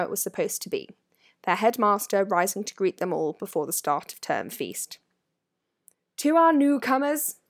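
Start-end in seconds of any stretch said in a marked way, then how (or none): 6.2-7.4 high, ringing address; Dumbledore's ringing voice. A narrator's reading. Headmaster greets the new pupils, ringing out. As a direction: proclaim it to a great hall. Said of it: "in a ringing voice".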